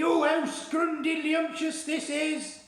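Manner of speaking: mock delight. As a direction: put on a giant's gushing rapture. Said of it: "you will be shouting to me".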